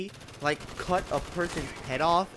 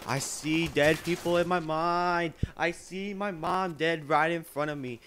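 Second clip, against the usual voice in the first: slow, drawn-out mock madman; crazy veteran; 3 semitones higher, slower than usual. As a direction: imitate a haunted patient, stretching the words. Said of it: "they would be all crazy".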